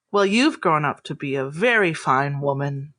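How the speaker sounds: gentle, proud elder's praise; kindly famous lady. Acted. Famous idol to a grown-up fan, kindly praise. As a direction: praise them tenderly, in character. GM plays Zashawn.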